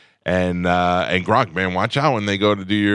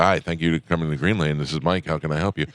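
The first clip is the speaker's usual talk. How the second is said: lower, polite drive-thru greeting; 4 semitones lower than usual. Shown as a demonstration. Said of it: "I got the good drive-thru voice".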